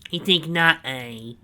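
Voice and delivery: loud, high, slow gloating; proud villain boast. A narrator's reading. Snively proudly showing Donovan the cell, loud and slow. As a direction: savour every word of the boast.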